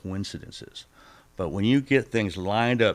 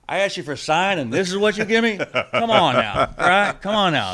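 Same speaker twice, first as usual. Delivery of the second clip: incredulous outcry; 11 semitones higher, 9 dB louder than usual. Retold or imitated. Complaining to God for sign.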